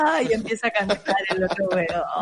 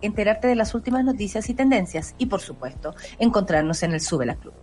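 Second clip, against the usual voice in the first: ad read. Acted. Host reads the station ad.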